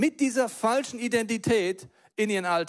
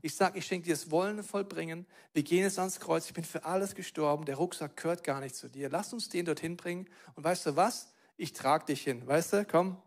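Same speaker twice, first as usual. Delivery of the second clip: gentle Jesus; 5 dB quieter than usual. Acted. Jesus softly comforting the burdened woman, quiet and tender. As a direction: coax her gently, like carrying a child. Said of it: "merkt sie".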